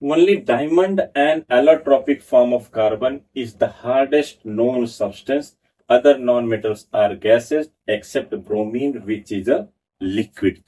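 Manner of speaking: slow note dictation to a class; dictating notes. Acted. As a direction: read it out slowly so students can write.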